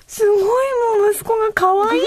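mother remembering her small son's voice, cooing high; doting coo. Real, not acted. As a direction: melt at the memory, voice up high. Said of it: "もうなんて可愛いんだろう".

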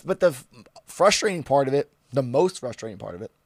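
breathless, running out of air; out of breath. Real, not acted. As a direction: talk while winded. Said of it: "I'm out of breath".

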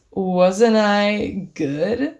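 slow, drawn-out fishing for a compliment; smug drunk brag. Retold or imitated. Drunk friend asking if his kiss was good, slow smug drawl. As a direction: stretch it out, so pleased with himself.

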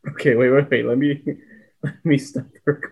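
breathless giggling, pitch jumping up; trying to talk through laughter; hiccup giggles. Real, not acted. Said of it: "I can't stop laughing".

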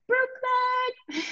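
high, delighted cry of the city's name; light up at the memory of Brooklyn; excited exclamation. Real, not acted. Guest greets her old home with a delighted high exclaim.

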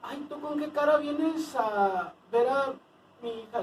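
put-on high, slow scolding old woman; mock the angry mother-in-law; scolding old lady. Man mimicking a scolding señora at the door.

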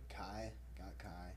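slow hushed whisper. Real, not acted. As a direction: breathe the name out slowly. Whispering a name aside.

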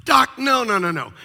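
patient refusing the doctor, loud pleading; pleading refusal. Retold or imitated. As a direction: wave it off, begging. John refusing doctor's plan.

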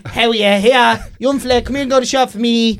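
lightly voiced old Dublin woman; a hint of a brassy Dublin neighbour. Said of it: "that's where that voice comes from".

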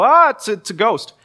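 high, loud startled yelp of fear; frightened cry. Retold or imitated. Disciples at sea cry out in terror at a ghost. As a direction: blurt it out like you've seen a ghost. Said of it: "and they go".

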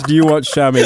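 mock country Southern accent. Friend teasing about the disguise, mock Southern accent. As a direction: say it like a hammy Southerner. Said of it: "as he adjusts his suspenders".

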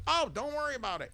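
high, breezy waitress voice; Rosie reassuring. Retold or imitated. Rosie calming the customer about the spill, high and breezy. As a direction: brush it off cheerfully. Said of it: "She goes".

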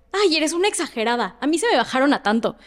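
dismissive one-upping. Retold or imitated. Acts out a dismissive acquaintance's one-upping.

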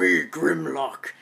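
slow, loud robot dinosaur voice; Grimlock. Retold or imitated. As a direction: stomp it out like a dumb dino robot. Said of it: "he's probably doing his Grimlock voice".

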